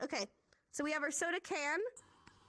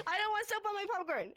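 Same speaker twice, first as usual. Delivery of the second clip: laughing; 8 semitones higher, 3 dB louder, faster than usual. Acted. Laughing repeat of joke.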